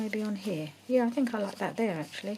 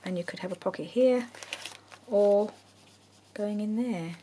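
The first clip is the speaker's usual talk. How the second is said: whispering. Real, not acted. Quiet crafting commentary.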